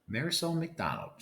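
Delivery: high, loud teacher calling her name; scolding teacher. Acted. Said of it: "she says".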